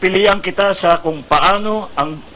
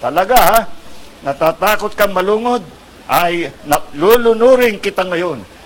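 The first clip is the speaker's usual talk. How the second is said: angry monkey threat; 4 dB louder than usual. Acted. Monkey threatens to drown turtle.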